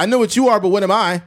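hammed-up kid comeback; childish Ryan comeback. Ryan trash-talking back like a child. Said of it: "Ryan will be like".

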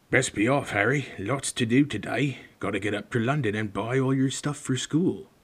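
lightly voiced hearty giant; a hint of rough gamekeeper. Reader voices Hagrid.

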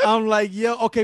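very high, laughing through the words; helpless laughter spilling into speech. Real, not acted. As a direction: talk while cracking up. Laughing at the friend's imitation.

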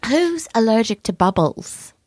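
put-on British voice, a little mannered; British accent. Host recapping a puppet show, put-on British accent. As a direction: narrate in a playful British accent. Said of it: "do this whole section in a British accent".

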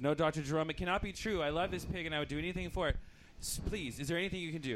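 pleading owner. Acted. Pig owner pleads in joke.

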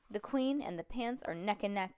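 usual speaking voice

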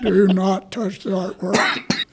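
slow, drawn-out loudspeaker warning; a museum PA catching someone touching the art; intercom voice. Retold or imitated. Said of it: "there was an intercom voice came on and said".

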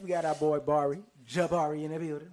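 loud hype-man intro; big excited shout-out; hype announcer. Real, not acted. Hyping up guest loudly.

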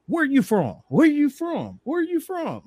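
imitating locals who keep asking; mock pestering question. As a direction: nag it over and over, climbing. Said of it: "thirty times in a week".

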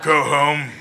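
drawn-out arena taunt, mock-heroic; mock Spartacus warrior. Actor quoting Spartacus on a panel, mock-heroic warrior. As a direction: send them off like a gladiator. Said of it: "watching, like, a lot of Spartacus".

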